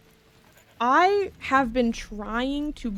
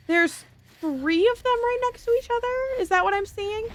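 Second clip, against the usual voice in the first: surprised; 11 semitones higher than usual. Real, not acted. Spots more enemies in game.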